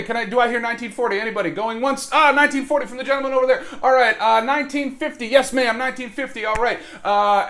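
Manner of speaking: quick auctioneer calling out bids. Pretend. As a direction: run the bidding like an auction house.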